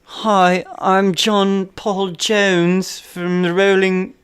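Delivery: imitating a rock musician. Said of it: "He's like".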